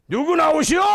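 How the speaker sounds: high, very loud call at the door; confident shout. Acted. Once-timid debtor now calling out the creditor, confident shout. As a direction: demand they come out, loud and bold. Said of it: "이러던 사람이 막 당당하게".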